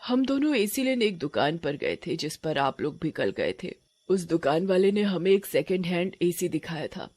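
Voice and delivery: a touch of sorrow, subdued telling; sorrowful witch. Acted. Witch tells the couple her life story, mildly sorrowful. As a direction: recount the past with understated grief. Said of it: "चुड़ैल बड़े ही दुख के साथ अपनी कहानी सुनाती है".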